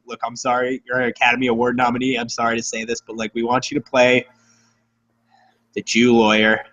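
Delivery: low, sighing, sheepish producer voice; sighing apology. Retold or imitated. Embarrassed producer sighing while offering Alfred Molina the role. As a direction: apologise with a heavy sigh. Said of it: "you sigh and you're like".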